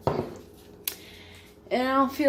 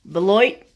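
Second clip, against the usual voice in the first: Beloit said louder like a toilet plop; imitating friend's toilet-sound Beloit; flushing Beloit; 3 semitones lower, 5 dB louder than usual. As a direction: say Beloit as if dropping a deuce. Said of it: "And then he went".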